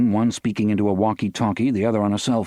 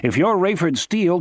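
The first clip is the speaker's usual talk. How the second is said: booming bullhorn voice; 9 semitones higher than usual. A narrator's reading. Guard calling to the car through a bullhorn, booming. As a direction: boom it out over a loudspeaker. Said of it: "came the voice again".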